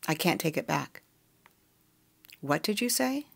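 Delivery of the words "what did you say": stunned, rising question; mother hearing shocking news, stunned; shocked. Acted. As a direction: pitch leaps up in disbelief. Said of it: "Shock waves".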